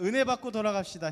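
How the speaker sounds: hearty, warm, high-pitched and loud. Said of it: "우리 이번엔 이렇게 인사합시다".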